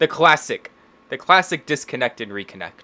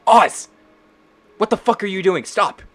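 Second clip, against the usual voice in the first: high, urgent call to stop; alarmed scolding; 8 semitones higher, 4 dB louder than usual. Acted. Lena calling Oz away from the wolf, high alarmed scolding. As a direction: cry out in exasperated alarm, pitched up.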